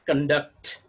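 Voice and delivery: con-DUCT, as a verb; light first syllable, punched DUCT in "conduct"; "conduct" said slowly apart, weight on -duct; stress on second syllable. Shown as a demonstration. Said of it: "This is what the stress shift".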